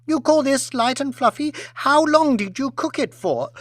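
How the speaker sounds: high, indignant scolding of the waiter; a spoilt lady tearing strips off staff; pampered aristocrat berating a waiter; haughty rant. Acted.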